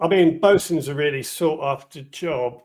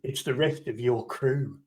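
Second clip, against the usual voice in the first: dramatic pauses; slower than usual. Acted. Kitaka answering about the arriving crew, with a dramatic pause. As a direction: let it hang, then slow down for the reveal. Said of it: "pause for, for dramatic effect and go".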